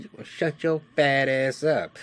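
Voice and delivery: lightly voiced insult, half-hearted anger; mock angry wife. Sister-in-law telling the nephew off in mild mock anger.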